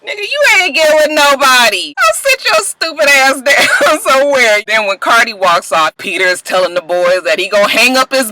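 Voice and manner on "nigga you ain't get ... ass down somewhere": higher, sassy put-down with a laugh; sassy comeback. Real, not acted. Talking back at Cisco on TV, sassy. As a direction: talk back to him with scornful sass.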